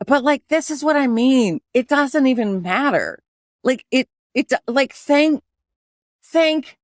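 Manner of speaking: bothered. Real, not acted. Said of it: "it's really been bothering me lately".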